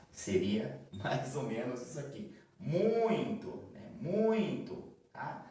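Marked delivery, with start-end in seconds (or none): 2.6-4.9 "muito" with a nasalized ui glide, higher; nasal ui shown. Shown as a demonstration. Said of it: "Com esse som aqui entre o U e o I". ("muito" nasalizado entre o U e o I)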